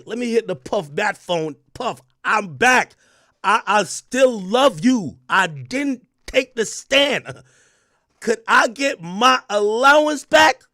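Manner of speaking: hammed-up begging ex calling back; imitating Gina Hugh. Streamer voicing Gina begging a rapper on the phone, hammed-up plea. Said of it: "she's like this".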